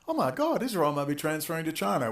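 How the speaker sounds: high-pitched mock gasp of alarm. Ranter mimicking people panicking over Israel and China, mock-alarmed squeal.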